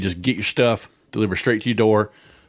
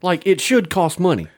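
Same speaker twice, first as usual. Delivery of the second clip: much higher, slow emphatic disbelief; amazed; 8 semitones higher, slower than usual. Acted. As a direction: marvel at it, stretching every word. Exaggerated amazement about free.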